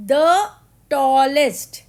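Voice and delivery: the tallest called out loudly, tallest punched; loud teaching emphasis. Shown as a demonstration. Teacher announcing superlative to class, loud emphatic call. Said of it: "और इसका superlative होगा".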